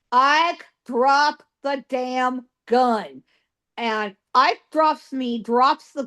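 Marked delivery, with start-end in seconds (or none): 0.1-3.2 slow, emphatic retold command; firmer stern order. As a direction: spell out the order word by word. Wyatt retold repeating order harder.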